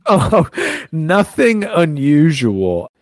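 high, slow, drawn-out mock nonchalance; mocking receptionist. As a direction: parrot it back loud, high and stretched. Mocking the receptionist's quoted statement.

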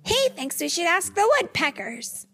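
high-pitched eager cry; high, excited little character voice; Thumper. A narrator's reading. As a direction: pipe up with an idea. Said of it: "Thumper cried".

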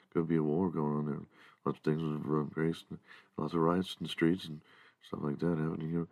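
soft, mellow public-radio host voice; NPR talk show host. Retold or imitated. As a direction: lull them like a sleepy NPR host. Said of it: "I don't talk like this, like a N P R talk show".

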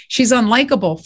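mildly indignant repeat of a criticism; irked echo. Retold or imitated. Writer repeating feedback on her main character, irked. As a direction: throw the verdict back, a touch irked. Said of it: "that really got in my crawl".

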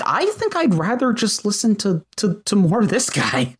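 lightly put-on longing; wishful aside. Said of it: "and I'm like".

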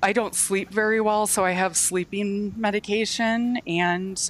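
fighting back tears while talking; crying. Real, not acted. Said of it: "Sorry, I'm crying now".

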